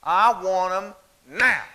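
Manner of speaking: put-on slow, drawn-out "now" as a defiant little girl; defiant demand. Girl on her back hip defying her mother, slow and pointed. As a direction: hand on hip, spell it out slowly. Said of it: "and she goes".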